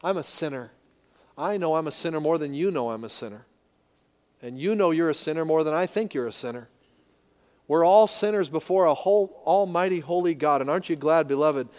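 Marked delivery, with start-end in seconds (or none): 0.0-6.7 humble confession. Pretend. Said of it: "drives you to your face and say".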